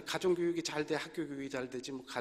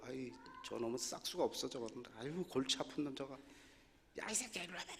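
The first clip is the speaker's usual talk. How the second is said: mock teacher grumbling; 3 semitones lower, 10 dB quieter than usual. Teacher scolding a problem student.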